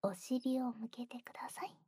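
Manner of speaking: quiet ear whisper; whispered instructions. Acted.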